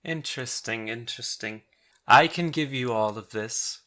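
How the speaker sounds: muse, then offer power as a bargain; scheming fancy gnoll. Acted. Gnoll Prescott offering intruders power, lightly put-on tempter's voice.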